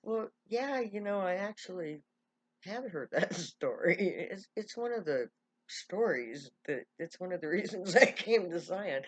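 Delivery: loud, amused, breaking into chuckles; laughing admission. Retold or imitated. Man admits to her he knows the story, laughing as he talks. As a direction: let laughs interrupt the confession. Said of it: "he just laughs and he goes".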